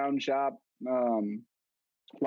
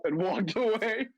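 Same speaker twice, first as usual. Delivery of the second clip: laughing; 9 semitones higher, slower than usual. Real, not acted. Laughing while telling.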